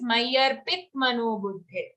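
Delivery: मय्यर्पित clipped to a half त at the end, run into मनोबुद्धिर्; common mispronunciation. Shown as a demonstration. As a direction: end मय्यर्पित on a bare t, without its vowel. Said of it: "here a common error is".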